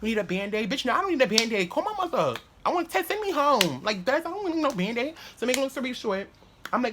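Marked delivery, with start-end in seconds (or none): 0.0-0.7 higher, soft cooing voice; soft, raised mock-soothing tone; imitated consoling teacher. Teacher consoling crying boy, retold. 0.7-5.2 put-on high, whiny protest of an upset kid; mock-upset, high-pitched pleading; retold crying child. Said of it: "I used to start crying".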